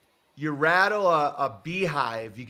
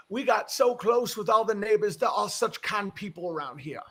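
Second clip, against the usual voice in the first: put-on Southern accent; 6 semitones higher than usual. Host quoting the neighbor praising kind people around here, Southern accent. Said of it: "Japanese guy with that accent".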